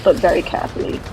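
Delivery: hushed, careful whisper; whispered caution. Acted. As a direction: breathe it out carefully. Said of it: "be very careful".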